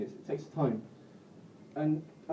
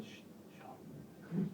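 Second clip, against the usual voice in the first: hushed then slow, higher inner voice; a tiny voice hissing from the back of your head; little northern voice; 5 semitones higher, much slower than usual. Acted. Inner northern voice scolding Sean over couscous, hushed then slow. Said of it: "my little tiny northern voice".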